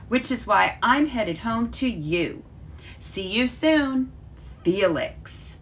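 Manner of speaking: lively storybook read-aloud for a class; reading a story to children. Acted. Teacher reading Felix's letter to her class, storybook voice. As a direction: read the letter like a bedtime story, bright and clear.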